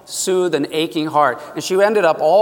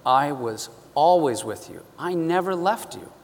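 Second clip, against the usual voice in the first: gentle reassuring; 2 semitones lower, 5 dB quieter than usual. Retold or imitated. God speaking to Holly, soft and reassuring. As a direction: reassure her quietly. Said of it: "Soft, gentle, but firm, loving, reassuring".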